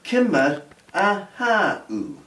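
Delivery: "Kimmer ahau" spoken slowly, stress on ahau, falling tune; slow, careful teacher model of "Kimmer ahau"; slow Gaelic demo. Shown as a demonstration.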